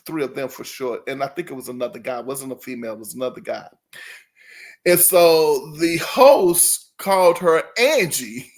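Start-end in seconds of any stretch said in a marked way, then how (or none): 4.9-8.5 laughing. Real, not acted.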